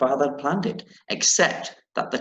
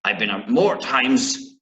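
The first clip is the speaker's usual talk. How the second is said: pirate accent. Shown as a demonstration. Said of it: "in an accent like a pirate".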